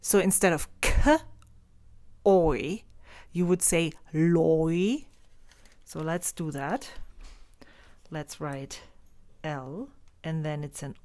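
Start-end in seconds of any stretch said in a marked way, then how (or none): 3.3-5.1 Leucht said as "loi", rhyming with koi. Shown as a demonstration. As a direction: stretch it slowly into "loi". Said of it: "you would pronounce similar to the word koi".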